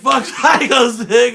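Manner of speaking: very loud, high, stretched-out shout; imitated crowd yell. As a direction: holler it like an angry heckler. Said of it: "was in that building yelling".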